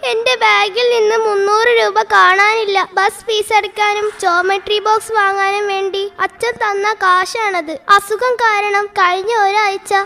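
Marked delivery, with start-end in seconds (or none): 0.1-6.5 higher, tearful and broken; crying. Acted. Schoolgirl to teacher, crying over her lost money. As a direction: report the loss through tears. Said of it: "Smitha കരയുന്നു".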